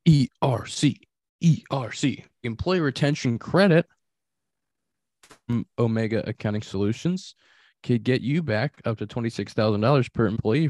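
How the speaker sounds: upbeat sponsor read, punchy and clear. Acted. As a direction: sell it like a radio spot. Reads a sponsor ad.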